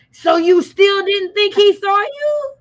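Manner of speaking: loud, slow disbelieving question; incredulous. Acted. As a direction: drag it out in disbelief.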